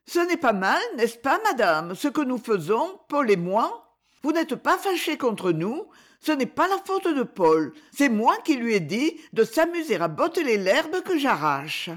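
put-on a little boy worried he's done wrong; voix d'enfant. (petit garçon inquiet, voix plus aiguë)

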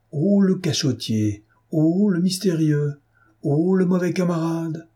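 rowdy comrades teasing Pierre; teasing shouts. A narrator's reading. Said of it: "crièrent les jeunes fous".

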